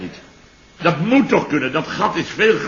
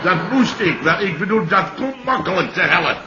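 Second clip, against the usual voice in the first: flustered laugh; 4 semitones higher than usual. Acted. Chef embarrassed, flustered.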